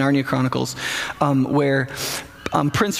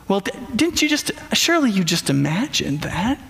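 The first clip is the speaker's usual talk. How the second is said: Emerald Witch voice; 3 semitones higher than usual. Retold or imitated. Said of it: "it sounds like the Emerald Witch".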